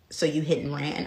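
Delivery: low, level retold cop question. Officer asks the student about the accident, low and measured.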